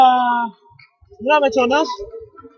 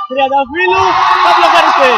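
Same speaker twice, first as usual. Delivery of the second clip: raised voice building to a louder finish; excited play-by-play call; 5 dB louder than usual. Real, not acted. Commentator calling a blocked attack in live volleyball, excited. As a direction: call the block as it happens, voice swelling.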